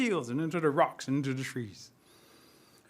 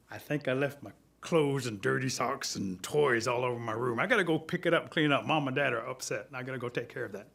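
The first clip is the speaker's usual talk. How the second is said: low, softer confession trailing down; sheepish Thunder; 5 semitones lower, 4 dB quieter than usual. Acted. Thunder admits to Turtle he left a mess, low and sheepish. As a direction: own up reluctantly in a lowered voice.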